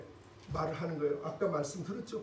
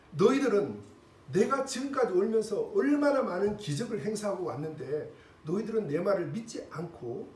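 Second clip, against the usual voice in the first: God's rebuke; 4 dB louder than usual. Retold or imitated. Preacher voices God rebuking people.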